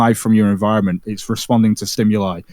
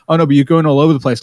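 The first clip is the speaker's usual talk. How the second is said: quick, slightly louder mimicry of Vegan Gains' voice; Vegan Gains accent; 2 semitones higher, 5 dB louder, faster than usual. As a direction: rattle it off fast in his accent, a bit louder. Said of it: "you do a very good Vegan Gains accent".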